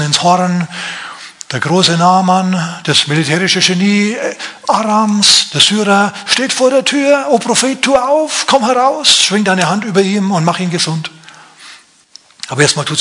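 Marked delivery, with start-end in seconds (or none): 1.5-7.3 grand herald. Acted. Announcing Naaman with fanfares. 7.3-11.1 high, grand summons at the door; a commander calling out for the prophet; lofty theatrical plea; pompous caller. Acted. Naaman calls at prophet's door.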